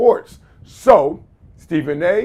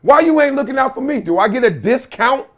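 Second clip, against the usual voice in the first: put-on pleading, higher, whining child; whiny kid voice; 5 semitones higher, 4 dB louder than usual. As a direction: beg like a kid after a discount.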